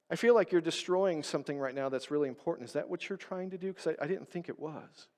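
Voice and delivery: gentle questioning. Shown as a demonstration. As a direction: ask it tenderly, not accusing. Modelling gentle confrontation.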